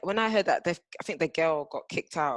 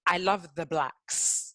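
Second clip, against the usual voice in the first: slow, drawn-out mocking quote; much slower than usual. Friend quotes the student's clumsy defence, slowly and mockingly. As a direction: spell it out slowly for ridicule.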